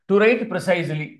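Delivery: spelled out slowly for the class; slow teacher dictation; slow and clear. Shown as a demonstration. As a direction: dictate each word slowly. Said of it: "దీని అర్థం అసలు డైరెక్ట్గా ఇది".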